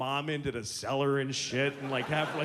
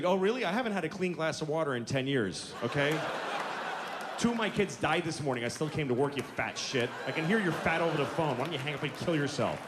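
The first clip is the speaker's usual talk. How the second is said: fed-up agent. Acted. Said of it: "and she's like".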